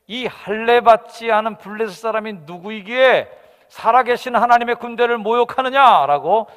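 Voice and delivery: loud, high defiant shout; shouting boy. Acted. The boy David shouting defiance across the valley. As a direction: cry out at the giant in outrage. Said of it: "소리를 지릅니다".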